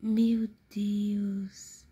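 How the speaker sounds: slow shocked whisper. Acted. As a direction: whisper in disbelief.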